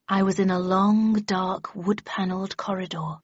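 measured, expansive reading aloud; clear confident reading. A narrator's reading. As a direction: read it out with assurance. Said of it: "read in a clear, strong, and confident voice".

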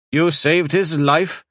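slow, high disbelief; incredulous. Acted. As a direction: scoff at her claim. Husband argues.

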